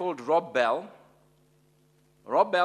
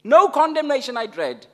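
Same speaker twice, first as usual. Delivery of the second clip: quoting hymn; 9 semitones higher, 9 dB louder than usual. Real, not acted. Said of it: "Wesley says".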